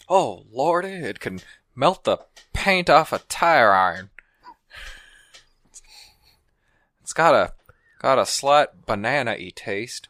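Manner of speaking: lightly voiced Texan dad; a hint of a folksy Texan; Hank Hill. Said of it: "explain this whiskey as Hank Hill".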